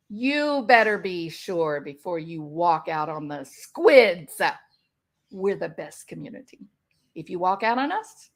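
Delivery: a hint of a clingy, threatening friend; manipulative narcissist. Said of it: "how about this?".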